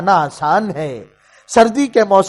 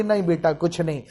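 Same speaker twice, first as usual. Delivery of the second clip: much softer, near-breathless denial; hushed grieving mother; 3 semitones lower, 10 dB quieter than usual. Acted. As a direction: hide the tears behind the words. Mother hides her grief.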